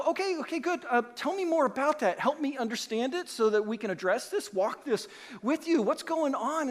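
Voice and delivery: the pastor calming an angry member, lightly voiced. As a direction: play the pastor backing off gently. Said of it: "I'll go".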